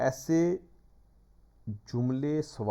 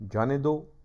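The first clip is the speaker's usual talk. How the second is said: جانے دو set apart, higher and louder, rising at the end; separated after comma; 4 semitones higher, 6 dB louder, slower than usual. Shown as a demonstration. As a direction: after the break, lift جانے دو as its own command. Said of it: "یہاں کاما لگائیں". (وقفے کے بعد جانے دو الگ، اونچی آواز میں)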